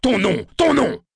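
high, loud convict's shout; menacing shouted demand; barking demand. Acted. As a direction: bark it at the terrified boy. Convict seizes boy, demands name.

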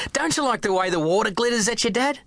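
put-on a boy asking his dad at the beach, eager; happy young boy. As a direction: bubble with delight at the beach.

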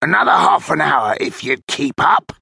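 lightly voiced older crook, impatient; a quick, mildly hissed retort; hissed older man. A narrator's reading. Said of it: "hissed the older man".

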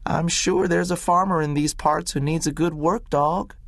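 lightly voiced doctor, practical; Doc Smith, practical. A narrator's reading. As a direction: settle the dog's future briskly. Doc Smith about the dog.

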